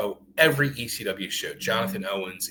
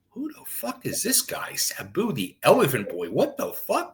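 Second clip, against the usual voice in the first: amazed; 5 semitones higher than usual. Retold or imitated. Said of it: "I was like".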